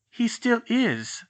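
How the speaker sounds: slow, firm cut-in; firmly interrupting; cutting in. Acted. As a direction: insist on it, leaning on each word. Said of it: "Hermione cut in".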